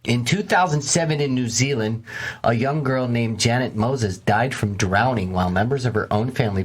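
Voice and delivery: measured documentary-style read; story narration. A narrator's reading.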